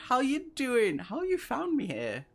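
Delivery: excited greeting. Real, not acted. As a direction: squeal a delighted welcome. Greets friend Ben from chat.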